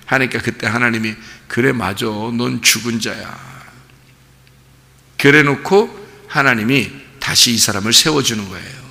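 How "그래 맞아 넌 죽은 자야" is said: soft, slow confirmation; low-key, drawn-out pronouncement; acted divine verdict. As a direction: agree quietly and let it sink in. God answering Job, acted.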